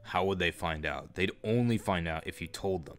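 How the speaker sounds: put-on a sleazy groomer coaxing a girl; creepy older man voice. Groomer messaging a young girl, low creepy voice.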